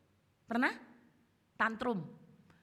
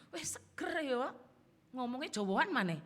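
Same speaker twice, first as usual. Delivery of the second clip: admiring onlooker; 2 semitones higher than usual. Retold or imitated. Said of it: "Orang terkagum-kagum".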